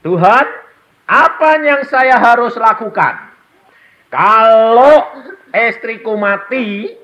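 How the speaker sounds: high, loud pleading to God; loud anguished prayer; crying out in prayer. Retold or imitated. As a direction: call out desperately to the Lord. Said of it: "Saya berdoa".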